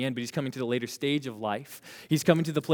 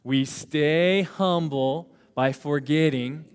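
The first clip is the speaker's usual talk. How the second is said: slow group recitation; slower than usual. Shown as a demonstration. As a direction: stretch "We stay humble by forgetting" very slowly. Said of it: "we gotta do it again".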